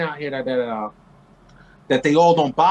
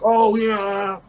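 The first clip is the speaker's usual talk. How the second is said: telling off rednecks. Retold or imitated. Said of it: "They be like".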